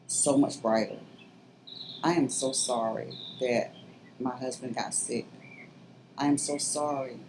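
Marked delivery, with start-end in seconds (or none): 2.0-7.2 getting emotional. Real, not acted. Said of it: "I'm getting emotional".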